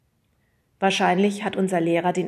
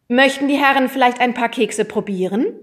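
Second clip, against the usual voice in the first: smiling; 5 semitones higher, 8 dB louder than usual. A narrator's reading. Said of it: "lächelnd".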